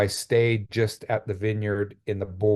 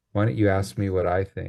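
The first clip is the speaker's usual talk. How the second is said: soft, little whisper. Retelling a voice heard inside the head: imitating a little whisper. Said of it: "this little whisper goes off in".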